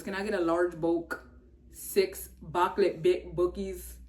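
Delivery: a light put-on voice for the McDonald's guy; quoting a viral video in his voice, loosely; imitating the viral guy. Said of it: "He goes".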